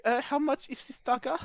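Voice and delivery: lightly voiced posh woman fussing; posh lady voice. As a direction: play the flustered refined lady handing over a purse. Posh woman haggles with smith.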